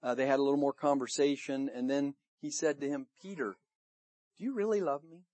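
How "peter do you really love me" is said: soft, with the name set apart; gentle, searching question. Acted. Jesus asks Peter a third time, gentle and searching. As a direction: press tenderly on "really", keeping it quiet.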